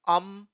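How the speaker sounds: "अम" as a separate syllable; teacher isolating "अम"; sounded-out syllable. Shown as a demonstration. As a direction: say अम alone as one word part. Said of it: "छोटी-छोटी parts में आप pronounce".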